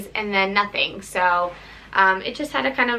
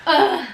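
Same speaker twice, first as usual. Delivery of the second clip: imitated baby wail; 7 semitones higher, 4 dB louder than usual. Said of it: "wail back, just like that".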